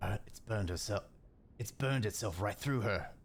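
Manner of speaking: hushed whisper. Narrator voicing the captain's line in a story; whispering. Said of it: "the captain whispers".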